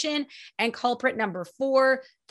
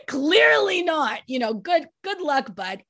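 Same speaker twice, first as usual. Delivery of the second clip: amused; 5 semitones higher, 3 dB louder than usual. Real, not acted. Amused after laughing.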